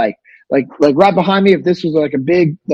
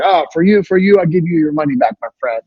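imitating vendor; 2 semitones higher than usual.

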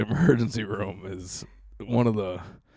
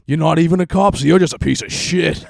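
louder, higher imitated insult, breaking into laughter; hammed-up shouting at the guard; mock yell; 7 semitones higher, 9 dB louder than usual. Junkie insulting the officer.

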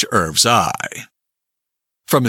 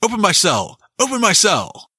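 higher-pitched plea, volume held back; mild narrated shout; 8 semitones higher than usual. A narrator's reading. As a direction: call out urgently as a narrator quoting a prisoner. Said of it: "shook the bars of the iron door and shouted".

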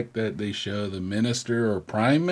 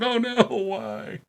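mock anguish; 10 semitones higher, slower than usual. Mock anguish over cake.

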